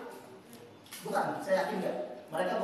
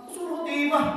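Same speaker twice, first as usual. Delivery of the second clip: higher, pushed-up repeat with a stretched TIMAH; incredulous echo; 8 semitones higher, 4 dB louder, slower than usual. Acted. Echoing their fear back at them, incredulous. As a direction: throw it back in disbelief. Acted astonished echo of the answer.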